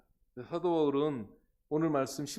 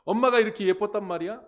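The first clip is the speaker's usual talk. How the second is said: acted child's loud, high-pitched disbelief; astonished question; 7 semitones higher, 11 dB louder, faster than usual. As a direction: ask it like a stunned son. Son shown mother's old photo. (깜짝 놀란 아이처럼 높고 크게 묻기)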